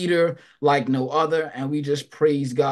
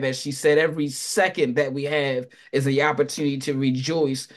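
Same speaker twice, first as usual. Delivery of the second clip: fervent prayerful exhortation; preaching. Acted. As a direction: urge the church to praise.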